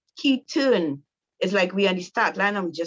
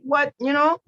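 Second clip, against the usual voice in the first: squeaky high disbelieving what; baffled, voice jumping up; husband confused by accusation, high startled what; stunned husband; 9 semitones higher, 5 dB louder, slower than usual. Retold or imitated. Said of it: "he like".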